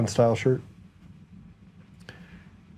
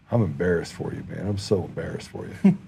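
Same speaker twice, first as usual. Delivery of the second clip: deadpan needling; 6 semitones lower than usual. Retold or imitated. Kidding a stranger in a coffee shop, deadpan. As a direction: keep it low and straight-faced. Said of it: "I did it with a straight face".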